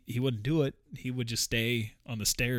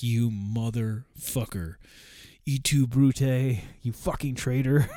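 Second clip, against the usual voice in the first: voicing the betrayed cat; 3 semitones higher, 4 dB louder, slower than usual. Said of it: "He's like".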